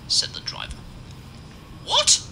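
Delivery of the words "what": high, louder indignant What; Henry protests the driver's diagnosis. A narrator's reading. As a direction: protest in outrage. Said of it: "objected Henry indignantly".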